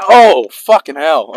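slow loud groan of pain. Real, not acted. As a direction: drag it out, hurting. Just shot, in pain.

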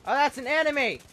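sudden loud excited shout; excited callout. Real, not acted. Gamer spotting an enemy, shouting to the squad. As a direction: yell it out as the enemy appears.

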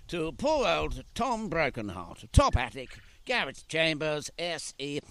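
lightly voiced pompous letter writer; mock official letter. Father playing an official to cheer his daughter, mock pompous. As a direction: read it out like a grand royal letter, slow at first. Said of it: "By letter".

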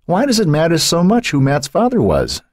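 high, tentative question; tentative venture. A narrator's reading. Eleanor trying to divert Jerry before a diatribe, tentatively. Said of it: "she ventured".

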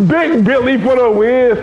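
slow, high, loud victory shout; too loud. Real, not acted. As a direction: bellow the win, drawn out. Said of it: "too loud, man".

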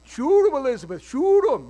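imitating a hunting show shout; mock TV shout. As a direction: bark it like a swamp hunter on TV. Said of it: "I'm watching this swamp people thing".

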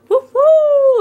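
high, loud hooting owl call; imitating owl. Retelling midnight walk, loud high owl hoot. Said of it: "an owl going".

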